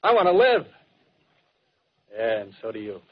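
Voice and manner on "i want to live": fervent cry. Acted. Artilleryman's fervent declaration.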